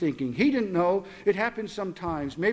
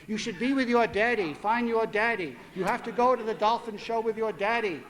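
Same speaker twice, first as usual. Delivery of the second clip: recorded voice; 3 semitones higher than usual. Retold or imitated. Father mocking a reminder device, robotic. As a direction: play a canned reminder recording. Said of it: "recorded voice equipment attached that said".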